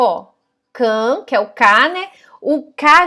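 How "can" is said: "Can" with the a pushed through the nose; nasal can. Shown as a demonstration. Teacher showing the nasal vowel in "Can". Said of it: "Veja como que fica".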